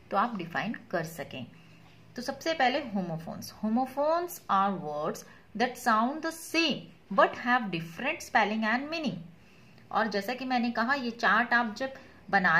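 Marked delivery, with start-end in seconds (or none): 3.6-9.2 very slow, deliberate definition read; dictation reading. Acted. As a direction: read it out slowly so they can write it down. Reads definition slowly.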